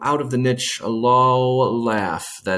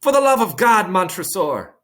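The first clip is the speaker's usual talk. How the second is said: high, loud desperate cry; desperate plea; 9 semitones higher, 4 dB louder than usual. Acted. Trapped Fortunato begs Montresor for mercy, desperate cry. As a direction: beg for mercy at full pitch. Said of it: "Fortunato pleads desperately".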